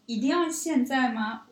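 retelling a puzzled protest; retold doubtful question. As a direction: stretch out the disbelieving question. Retells questioning roommate's late outing.

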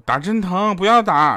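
put-on high, loud whiny cry of a kid; child's yell. Son at the ER, a high, loud retold yell at dad. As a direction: wail it like a scared little boy. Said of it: "然后大叫说".

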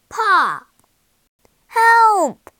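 high, loud alarmed yells; cry for help. A narrator's reading. Jack drenched by a giant drop, spluttering cry for help. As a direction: call out as if drenched and drowning. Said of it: "he goggled".

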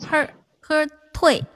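slow, drawn-out 喝退; slow demo. Shown as a demonstration. Host showing her old way of scolding, slow. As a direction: stretch out 喝退 slowly. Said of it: "以前是".

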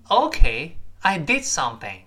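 teacher's model line with a punched "did"; stress on did. Shown as a demonstration. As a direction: lean hard on "did" in "I did something". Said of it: "did一定要重读".

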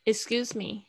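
"Excuse" begun with short i, "ik-SKYOOZ"; correct first vowel. Shown as a demonstration. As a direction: model "Excuse" with "ik", not "ek". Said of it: "它的发音不是A". (示范"Excuse"开头念短音i)

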